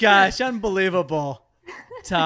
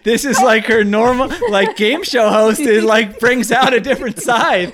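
talking through laughter; giggling while speaking; laughing; 3 semitones higher, 8 dB louder than usual. Real, not acted.

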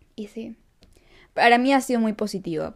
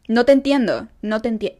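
louder, dismissive retold complaint; trato grosero imitado; 2 semitones higher, 5 dB louder than usual. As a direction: imitate a rude woman cutting someone off. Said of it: "la mujer la comenzó a tratar mal". (imitando un trato grosero, más alto)

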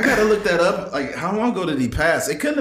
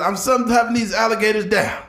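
Ric Flair impression; 8 semitones higher than usual. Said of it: "he said".

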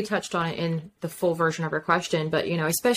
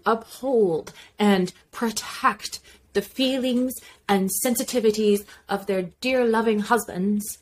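put-on light old-timey transatlantic accent; playful mid-Atlantic lilt; 3 semitones higher than usual. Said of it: "hear more in that transatlantic accent".

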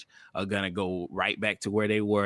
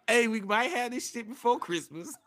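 Donald Trump; 13 semitones higher than usual. Retold or imitated. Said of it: "shit that Trump was talking about".

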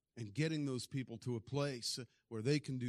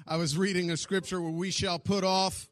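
anointed reading voice; 4 semitones higher, 10 dB louder than usual. Retold or imitated. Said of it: "anointed voice".

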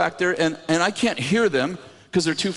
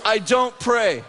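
drawn-out, higher imitated refusal; firm refusal; 4 semitones higher, much slower than usual. Husband refusing to pray for wife, slow firm refusal. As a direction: stretch the husband's refusal slowly. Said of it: "He goes".

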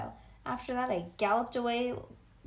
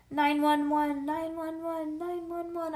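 high, drawn-out cry for help; hollering; 5 semitones higher, 4 dB louder than usual. A narrator's reading. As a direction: wail it like a siren, loud at first. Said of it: "I hollered".

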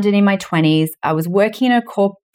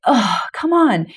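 fed-up voice; 2 semitones higher, slower than usual. Retold or imitated. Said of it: "very, like".

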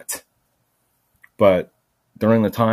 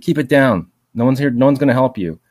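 higher, louder snapping at him; mock hostile shout; 5 semitones higher, 5 dB louder than usual. Stranger jeering at the screaming man, loud. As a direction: bark it back like a jeering stranger. Passers-by telling him to shut up.

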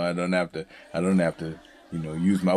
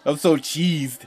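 cheesed off; 5 semitones higher, 3 dB louder, much slower than usual. Real, not acted. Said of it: "Don't be cheesed".

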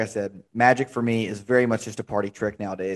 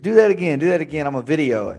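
higher, louder pushy demand; eager dad; 5 semitones higher, 3 dB louder, faster than usual. Retold or imitated. Party dad demands a repeat, higher and louder. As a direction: press him to do the trick again, higher and louder. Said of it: "he's like".

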